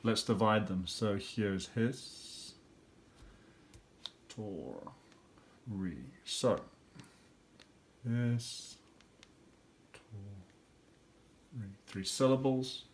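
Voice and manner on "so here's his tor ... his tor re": his, tor, re, broken into slow separate beats; slow syllable split. Shown as a demonstration. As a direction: clap out his tor re one beat at a time. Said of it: "I can see three syllables here. Let's divide them".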